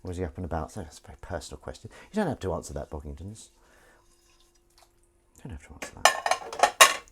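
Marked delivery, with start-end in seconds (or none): 5.4-7.0 whispery mock character voice; put-on voice. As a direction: say it again in a silly put-on voice. Repeating line in a put-on voice.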